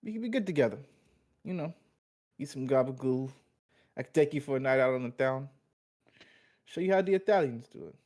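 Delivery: laying on the Italian mobster charm; smooth-talking wise guy pitching a date; Italian mobster accent. Acted. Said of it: "Your accent's just so good".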